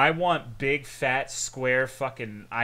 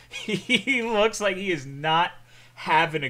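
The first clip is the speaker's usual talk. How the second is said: laughing; 6 semitones higher, 6 dB louder than usual. Real, not acted. Laughing at meme image.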